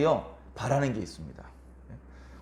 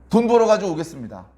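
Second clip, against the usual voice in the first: 돈 벌어가지고 said louder, pressing; louder insisting repeat; 5 dB louder than usual. Retold or imitated. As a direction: insist on 벌어가지고 with a firm push. Repeated promise, louder take. (더 크게 다짐하듯)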